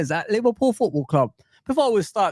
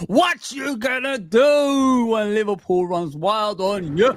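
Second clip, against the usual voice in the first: wrestling promo shout; 3 semitones higher, slower than usual. Pretend. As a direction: belt it out like a wrestler's taunt.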